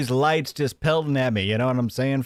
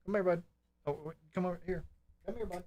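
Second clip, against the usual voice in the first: higher and much softer, coaxing the dog; hushed higher call to the dog; 6 semitones higher, 13 dB quieter, much faster than usual. Real, not acted. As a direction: coax the pup over gently. Calling his dog over.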